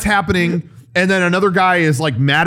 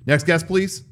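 clipped snippy cashier; 4 dB quieter than usual. Retold or imitated. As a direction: mutter it like a tired cashier. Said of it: "Hey, they're calling you".

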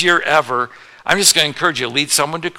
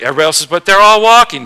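put-on much higher, louder child's whine; protesting kid; 4 semitones higher, 9 dB louder, faster than usual. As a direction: whine like a kid who wants to cross.

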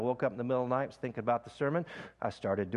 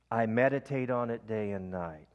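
breath prayer demo. Shown as a demonstration. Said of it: "Then you breathe in again".

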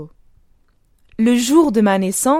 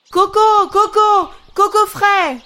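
high, loud hawker's call; street vendor's cry; 10 semitones higher, 3 dB louder than usual. A narrator's reading. Coco seller calling out behind the boy, high loud hawker's cry. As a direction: sing it out like a coconut-drink seller in the street. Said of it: "j'entendis crier".

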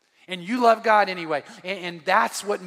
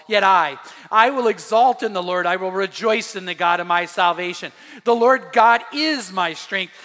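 measured recitation swelling louder on the vows; declamatory scripture reading; 3 dB louder than usual. Acted. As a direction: build from measured verse to ringing declaration. Reads scripture aloud to congregation.

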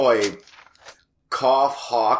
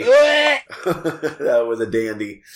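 slow, laughing through the words; much slower than usual. Real, not acted. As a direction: laugh it out slowly. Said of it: "repeats it".

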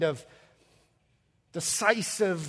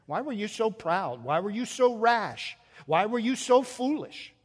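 mounting, higher-pitched reproachful questions; mock rebuke; 4 semitones higher than usual. Preacher voicing rebukes Jesus never gave, mounting reproach. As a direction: build each imagined scolding a step higher.

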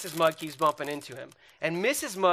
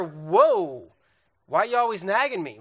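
mock marital yelling; 5 dB louder than usual. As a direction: act out an exasperated husband snapping. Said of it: "Why are you yelling at me?".

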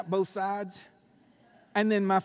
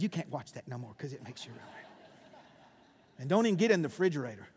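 wife's warning; 6 semitones lower, much faster than usual. Retold or imitated. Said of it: "Kelly told me".

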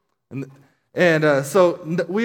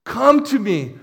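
crying out; 5 semitones higher, 3 dB louder than usual. Retold or imitated. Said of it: "he's crying out".

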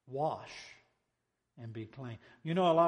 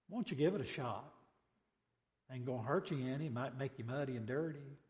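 soft-spoken, gentle coaxing; humble approach; 3 dB quieter than usual. Acted. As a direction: humbly talk a proud master round, understated. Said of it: "try to make a humble".

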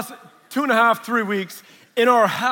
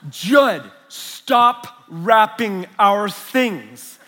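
laughing scold; 5 dB louder, much slower than usual. Real, not acted. Scolding son while laughing.

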